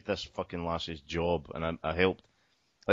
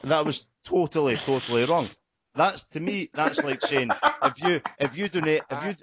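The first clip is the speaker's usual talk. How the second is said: indignant rant; 5 semitones higher than usual. Real, not acted. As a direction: get fired up about it. Indignant rant about wrong slogan.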